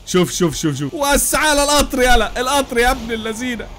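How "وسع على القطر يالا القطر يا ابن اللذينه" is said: high, loud, slow yell to clear the way; yelling at traffic. Real, not acted. Gamer yelling at cars to move aside. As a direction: shout them out of the way.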